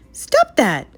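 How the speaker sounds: high, loud sharp order; furious shout at the mischievous cats; angry bark. A narrator's reading. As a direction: snap at the cats to stop. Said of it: "Lady barked angrily".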